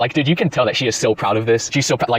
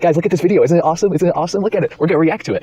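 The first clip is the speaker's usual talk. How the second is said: higher, louder showing-off voice; higher mocking show-off streamer voice; mock proud streamer; 7 semitones higher, 4 dB louder, faster than usual. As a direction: brag to your viewers, mocking.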